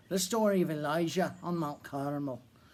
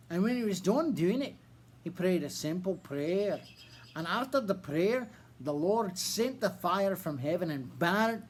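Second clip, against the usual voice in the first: a put-on Irish accent throughout. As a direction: tell it with a bad Irish accent. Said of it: "with the worst Irish accent you've ever heard".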